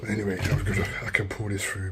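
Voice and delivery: talking around a phone in the mouth; muffled, phone gripped in teeth; phone held in teeth. Real, not acted. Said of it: "Stick the phone in my mouth".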